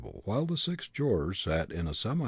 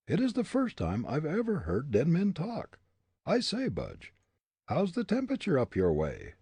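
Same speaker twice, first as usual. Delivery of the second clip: put-on higher, defiant young prisoner; defiant young man; 8 semitones higher than usual. A narrator's reading. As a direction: throw back the accusation. Hartley voiced.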